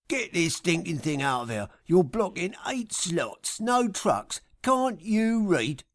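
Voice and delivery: an irritated attendant losing patience, voice going up; angry parking attendant. Acted. Parking guy shouting at the trucker, angry and climbing.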